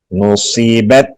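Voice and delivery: "نصیبت" with the voice stopped on the t; closed final ta. Shown as a demonstration. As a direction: shut off the sound at the end of "نصیبت". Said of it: "تا پہ آواز بند کریں گے".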